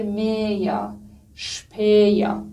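میا، شپیا very slow with a clear glide; "ey" sound demonstrated. Shown as a demonstration.

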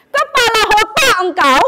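high, loud comic retort; mock angry outburst. Speaker rebukes the Malaysia expert, angry outburst. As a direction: hurl it at the know-it-all, loud and high.

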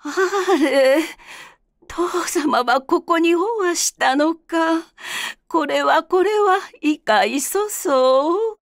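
lightly voiced older geisha, surprised; refined woman's voice. Narrator voices Okaji.

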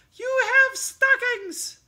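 loud, high, slow delighted cry; excited cry. Acted. Mouse delighted at the stockings, loud and high. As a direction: squeal it with joy. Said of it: "he cried".

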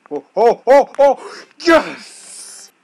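high, loud triumphant yelling; excited cheer. Real, not acted. Gamer cheering after clearing a level. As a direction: cheer as you make it.

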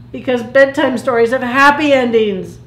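mildly indignant protest. Acted. Plankton argues with Crabby over the ending, mild indignation. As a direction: insist on it, a touch outraged.

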